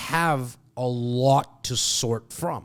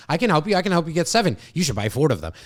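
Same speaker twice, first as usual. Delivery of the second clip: fast, louder hard-sell pitch; pushy salesperson; 4 semitones higher, 4 dB louder, much faster than usual. Retold or imitated. Coach mocking typical salespeople, fast and pushy. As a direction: rattle it off like an eager salesman pushing product.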